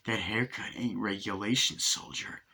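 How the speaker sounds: a hint of a gruff sergeant sneer; Jack Nicholson. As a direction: sergeant scolding a soldier, a light Nicholson hint. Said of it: "I sound like Jack Nicholson there".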